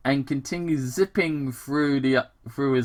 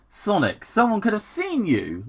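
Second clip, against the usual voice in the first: Longclaw; 8 semitones higher than usual. Acted. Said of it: "Longclaw said".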